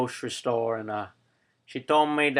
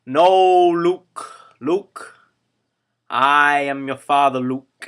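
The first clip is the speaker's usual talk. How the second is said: Darth Vader; 2 semitones higher, 9 dB louder, slower than usual. Retold or imitated. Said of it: "Darth Vader said to Luke".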